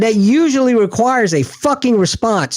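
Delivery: slow, high, emphatic telling-off; retold yell. Sailor calls out weapons officer before everybody, yelling. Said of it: "I yell at the top of my lungs".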